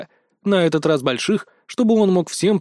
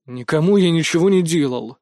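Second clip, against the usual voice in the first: angry. Acted. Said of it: "злобно ответил я".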